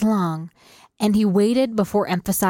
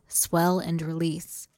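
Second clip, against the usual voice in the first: slow and much softer, trailing off; slow fading echo; 3 semitones lower, 7 dB quieter than usual. Shown as a demonstration. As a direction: let it fade as you repeat it.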